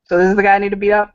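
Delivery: fast, half-joking tough-guy line; sizing up the boyfriend, lightly menacing. Acted. Father eyeing his daughter's boyfriend, quick mock threat. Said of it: "kind of bite his lip".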